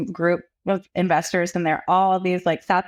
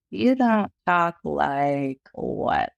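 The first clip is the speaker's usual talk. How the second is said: drawn-out, pointed question; slow it down, feigning confusion; slow incredulous; 3 semitones lower, much slower than usual. Retold or imitated. Mother pressing the principal on what they don't say, slow pointed question.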